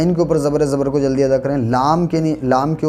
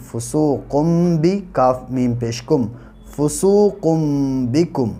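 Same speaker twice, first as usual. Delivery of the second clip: slow, deliberate letter by letter spelling; syllable spelling drill. Shown as a demonstration. Teacher spelling out a Quran word for students, slow and deliberate. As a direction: build each word syllable by syllable.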